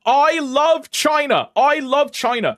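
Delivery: high, loud, drawn-out proclamation; hammed-up devotion at full volume; mock enthusiastic shouting. Streamer declaring love for China for points, mock enthusiastic shout.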